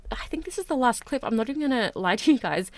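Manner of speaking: breathless after talking fast; short of breath, gasping between phrases. Real, not acted. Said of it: "I'm completely out of breath".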